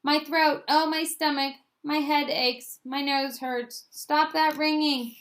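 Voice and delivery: high, loud chorus of moans; complaining patients. A narrator's reading. Upset patients crowd the waiting room, complaining loudly. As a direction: whine each ailment high and loud, slowing.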